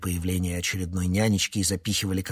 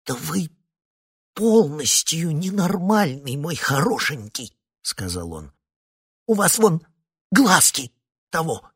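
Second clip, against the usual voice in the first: ошеломлённо; 9 semitones higher, 6 dB louder than usual. A narrator's reading. Синайский в ужасе.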